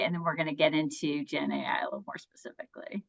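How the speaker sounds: quick, soft whispered aside. Real, not acted. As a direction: toss it off under your breath.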